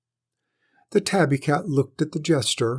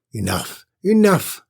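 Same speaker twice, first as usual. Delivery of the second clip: second enough much higher and louder; shouted; 6 semitones higher, 7 dB louder than usual. A narrator's reading. Lord cutting the jester off with a shout. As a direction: shout him off. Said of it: "shouted the lord".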